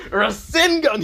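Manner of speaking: high, loud attack call; anime-style attack yell; battle cry. Acted. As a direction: shout the move's name as you strike. Attack name called out in battle.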